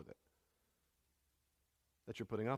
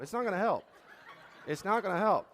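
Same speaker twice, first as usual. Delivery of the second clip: laughing; 7 semitones higher, 7 dB louder than usual. Real, not acted. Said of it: "laughing aside".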